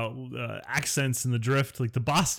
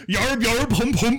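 mock pirate grunts, higher and louder; cartoon pirate; 11 semitones higher, 6 dB louder than usual. Friend jokes that old English sounded like pirates, mock pirate. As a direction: bark it like a silly cartoon pirate. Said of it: "cartoon pirates".

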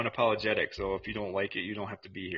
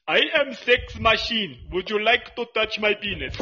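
mock sleazy accent; 7 semitones higher, 3 dB louder than usual. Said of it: "It'd be more like".

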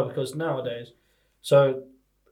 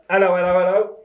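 mock policeman; 2 semitones higher than usual. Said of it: "You be the policeman".

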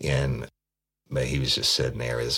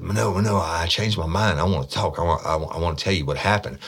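mocking a pleading suspect, pitched up and rushed; 4 semitones higher than usual. Cop mimicking a suspect who suddenly wants to talk, high whiny mock. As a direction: imitate him begging to confess, high and hurried.

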